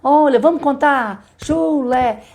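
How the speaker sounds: put-on teacher to child. Shown as a demonstration. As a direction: invite the kids to count along, pitch up. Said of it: "pegue as mesmas palavras da rima".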